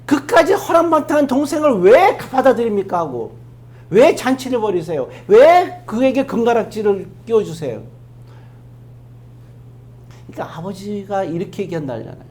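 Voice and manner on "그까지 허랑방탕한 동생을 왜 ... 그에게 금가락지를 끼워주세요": mildly indignant complaint to a father; angry elder brother. Acted. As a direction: protest with stress on each why. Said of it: "형이 막 화를 내잖아요". (화난 형이 따지듯)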